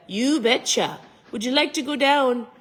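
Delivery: lightly exaggerated Minnesotan; hammed-up Minnesota talk, lifting in pitch; mock Minnesota accent. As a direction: pretend to be from Minnesota. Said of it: "pretend they were from Minnesota".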